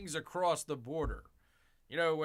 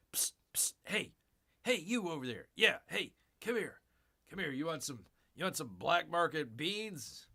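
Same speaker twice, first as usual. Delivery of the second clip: psst for attention. Acted. Black market dealer calling over.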